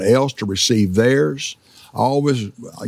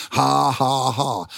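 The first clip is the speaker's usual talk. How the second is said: laughing; 2 semitones higher, slower than usual. Retold or imitated. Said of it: "Jesus got it for me".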